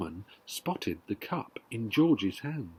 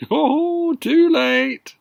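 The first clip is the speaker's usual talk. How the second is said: pleased; 12 semitones higher, 9 dB louder, much slower than usual. Acted. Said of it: "looking pleased".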